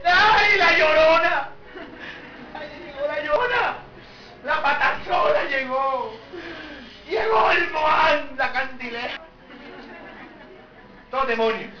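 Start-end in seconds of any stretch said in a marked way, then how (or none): 0.0-9.2 mock panic. Disciples spotting a ghost on the lake, mock terror.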